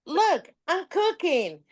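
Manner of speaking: imitating the catfisher's sweet-talk; mock flirty scammer. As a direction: play the scammer inviting her to wine, lightly.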